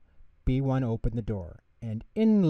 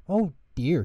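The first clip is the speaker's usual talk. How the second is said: high, louder dismayed "oh dear"; a startled little gasp of dismay; surprised; 7 semitones higher, 4 dB louder than usual. Acted. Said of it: "he said".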